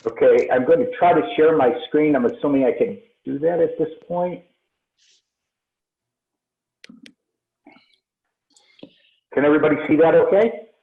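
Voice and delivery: echoey, hollow room sound; echoing tunnel. Real, not acted. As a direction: speak as if from inside a tunnel. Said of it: "you have a very echoey sound".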